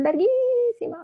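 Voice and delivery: LARGUÍSIMA with the í drawn out high; emphatic stretched word. Real, not acted. Woman recalling her very long confession, drawn-out larguísima. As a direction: stretch the í of larguísima, pitch soaring.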